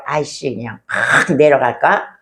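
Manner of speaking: annoyed grumble. Retold or imitated. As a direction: grumble like you're fed up. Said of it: "한번 그렇게 생각하지 않겠습니까".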